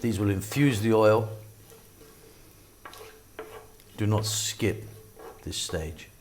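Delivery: put-on a dad's try at his kids' London accent, lightly done; attempted London accent. Cooking host copies his children's London accent, lightly put-on. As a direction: cook in a light London accent like your kids. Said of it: "I'll be speaking slightly more like my daughter and my son".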